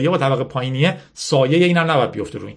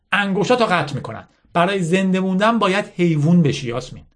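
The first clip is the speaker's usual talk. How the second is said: higher-pitched insistent lecture, lightly acted; bitter General Mala; 6 semitones higher than usual. Mala lecturing Yasmin on winners and losers, mildly bitter insistence. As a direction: drive the hard lesson home.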